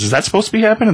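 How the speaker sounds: high, nervous question; alarmed guy. Retold or imitated. Man in the boat as ice cracks, high alarm.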